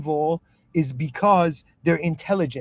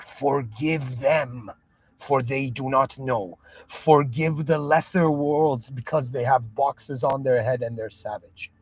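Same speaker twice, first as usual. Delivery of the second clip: emotional quote. Acted. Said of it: "he looked at the whole moment and was like".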